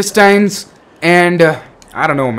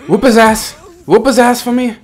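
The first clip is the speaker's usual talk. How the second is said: egging on; 5 semitones higher than usual. Real, not acted. Cheering on game character in fight.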